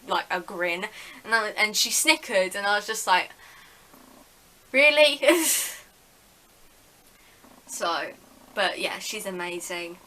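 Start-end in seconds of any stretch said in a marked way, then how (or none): 4.7-5.8 loud, high, exasperated disbelief; exasperated really. Retold or imitated. Patient reacting to the dentist's snicker, loud and exasperated. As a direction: call her out in outraged disbelief.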